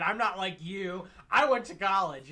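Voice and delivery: loud, high, stuck-up mock voice; haughty snob. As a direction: look down your nose at them. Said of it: "that haughty".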